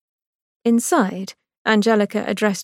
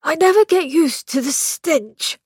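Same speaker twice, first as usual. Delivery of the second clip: lightly voiced young man, higher, grimacing at the smell; a hint of a fussy brother; Victor, disgusted; 9 semitones higher than usual. A narrator's reading. Brother to sister in the morgue, mildly disgusted.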